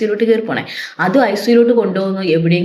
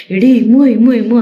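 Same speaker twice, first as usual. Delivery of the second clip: excited calling out; 5 dB louder than usual. Retold or imitated. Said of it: "ഓടി വന്നേരം പറഞ്ഞു".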